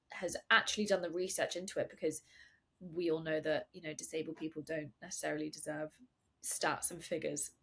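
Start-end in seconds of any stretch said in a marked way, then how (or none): 1.9-7.5 understated deadpan sarcasm; mock agreement, barely signalled; sarcastic. Host mocking how little research disabled people get, sarcastic. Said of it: "Full sarcasm, by the way".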